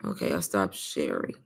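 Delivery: hushed breathy whisper, barely any voice. Real, not acted. Streamer whispering to chat she stopped sharing. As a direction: voice nearly gone, just whisper it. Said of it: "I think I'm losing my voice".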